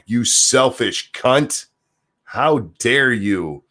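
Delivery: slow, drawn-out sarcastic scold; mock the judge slowly; a slow, mocking telling-off.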